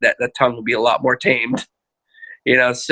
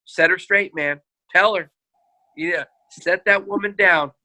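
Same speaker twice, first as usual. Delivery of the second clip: higher-pitched, hammed-up bossy man; mock macho talk; 5 semitones higher than usual. Counselor mocking a husband's inner voice, playfully bossy. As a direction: parody a man egging someone on. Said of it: "That sounds really stupid".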